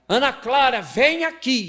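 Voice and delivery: high, loud stern call; high, loud angry mother calling her daughter; stern mom. Retold or imitated. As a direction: call the child sharply. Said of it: "quando tá brava".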